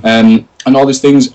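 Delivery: high, squealing fan gushing in a put-on voice; excited fan voice. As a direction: gush like a starstruck fan who missed meeting him. Excited fans online reacting.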